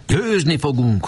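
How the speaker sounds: a high, excited cry of victory; excited boys' cheer. Acted. Boys shouting at their war game, excited and high.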